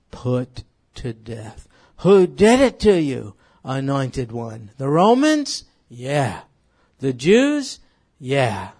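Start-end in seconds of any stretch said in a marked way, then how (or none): 2.0-8.7 loud preaching. Real, not acted. Rhetorical questions preached loudly.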